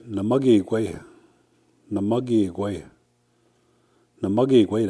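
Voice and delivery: Namagi Igwe with weight on NAMAGI; Cree word Namagi Igwe. Shown as a demonstration. Cree teacher models Southern Plains Namagi Igwe, clear demo. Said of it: "we say".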